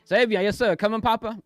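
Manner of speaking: playful pet reply; voicing the pet. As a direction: answer for the pet like an eager kid.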